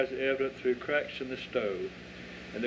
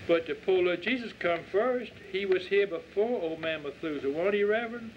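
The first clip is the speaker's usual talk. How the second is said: put-on eager child; 5 semitones higher than usual. Child Christine insists.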